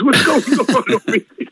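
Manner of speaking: retold bewilderment breaking into laughter; laughing disbelief. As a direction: crack up while asking it. Laughing at his own bewilderment.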